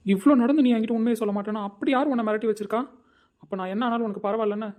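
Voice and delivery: husband confronts wife, angry loud demand; angry outburst. Acted. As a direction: demand to know who threatened her. Husband demanding who threatened her.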